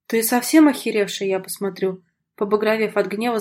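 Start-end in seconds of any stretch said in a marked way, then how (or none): none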